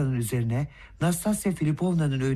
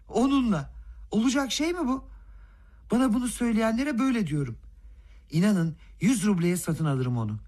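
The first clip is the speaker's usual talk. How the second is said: elated boasting; 4 semitones higher than usual. Acted. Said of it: "neşeden neredeyse coşmuş gibi".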